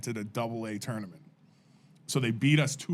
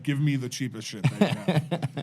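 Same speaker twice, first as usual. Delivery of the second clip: laughing quote; 2 semitones higher than usual. Retold or imitated. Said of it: "I was like".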